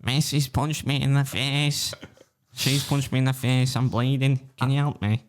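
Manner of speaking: slow, high, overplayed plea; dramatic victim. Shown as a demonstration. Redoing the punched schoolboy for his friend, slow and dramatic. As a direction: ham up the hurt schoolboy begging for help. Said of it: "I was trying to be dramatic".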